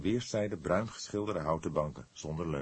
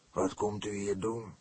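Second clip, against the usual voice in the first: demanding; 3 semitones higher than usual. A narrator's reading. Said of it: "vroeg hij dwingend".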